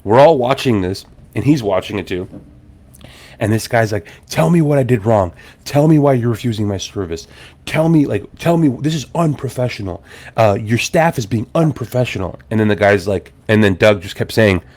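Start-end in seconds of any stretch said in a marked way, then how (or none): 4.3-12.4 mild mock indignant demand; imitated Karen meltdown. Irate customer demanding reasons from booth owner, mock meltdown. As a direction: play an aggrieved customer, lightly heated. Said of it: "having a meltdown Karen moment".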